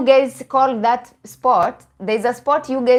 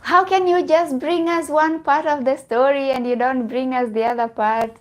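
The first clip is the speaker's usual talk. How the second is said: higher-pitched mock complaint; complaining; 5 semitones higher than usual. Host imitating subscribers who got only part one, complaining. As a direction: imitate whining followers demanding the rest. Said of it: "you were complaining".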